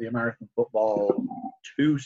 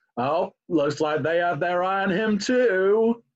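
most American accent possible, high, exaggerated, drawn-out; 5 semitones higher than usual. Imitating the guy on the draft after a cued pick: the most American voice. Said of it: "in the single most American voice".

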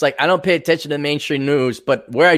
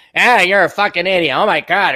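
plugged-up voice like a stuffed-up nose; 4 semitones higher, 3 dB louder than usual. Imitating a friend who insults the speaker: imitating a plugged-up voice. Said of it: "he talks like that 'cause he got plugged up".

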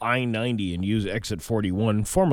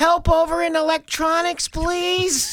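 very high-pitched, loud intercom PA voice; 5 dB louder than usual. Recalling a Walmart worker paging over the PA system: imitating high-pitched PA voice. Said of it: "he became a high talker when he got on the intercom".

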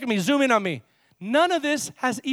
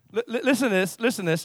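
usual speaking voice

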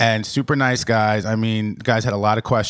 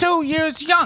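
put-on very high voice of a seven-year-old child. As Jimmy from down the block, telling the show's hosts your age, voice like a seven-year-old. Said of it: "You sound like you're 7".

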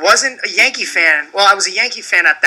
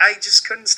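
usual speaking voice

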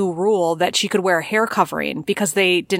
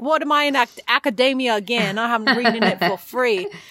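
high-pitched put-on Northern English accent; 5 semitones higher than usual. Retelling own reaction to reading the New Yorker: put-on Northern England accent. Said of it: "real, like, Northern England".

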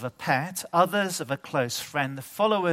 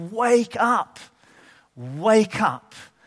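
put-on very slow, stretched, loud, high rousing yell; 6 semitones higher, 4 dB louder than usual. Recalling how everyone shouted at the parents lying down: retelling a loud shout. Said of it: "we all shouted very loudly".

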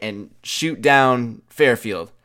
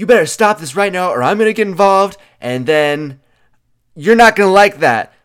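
furious, loud, high-pitched angry yelling; 7 semitones higher, 7 dB louder than usual. Recounting a large man yelling at the speaker, mistaking him for someone else; imitating angry yelling. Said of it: "he's just yelling at me".

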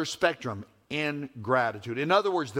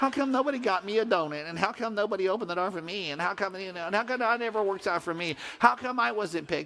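whiny, high, nasal, complaining tone; 5 semitones higher than usual. Imitating the whiners who complain about everything: imitating a nasal whining tone. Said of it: "They talk in that nasally tone".

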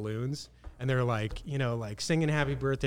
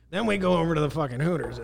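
put-on gross voice, higher pitched; 4 semitones higher, 4 dB louder than usual. Retelling what Mark said at the condo: gross impersonation of Mark. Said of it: "that's my gross impersonation".

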